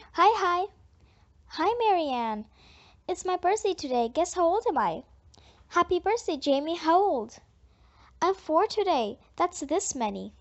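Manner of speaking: chirpy four-year-old, lightly voiced; lightly voiced birthday boy, excited; lightly voiced small child. Four-year-old Jamie at party.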